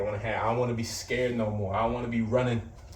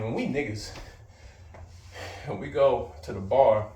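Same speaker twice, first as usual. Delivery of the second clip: breathless, catching air between words; winded talking; out of breath. Real, not acted. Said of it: "I'm a little out of breath".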